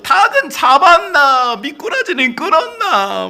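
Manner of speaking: lively Jeolla relative fussing over a guest; chatty Jeolla questions. Retold or imitated. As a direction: pepper them with questions like a Jeolla host. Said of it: "인사만 여덟 마디를 해가지고".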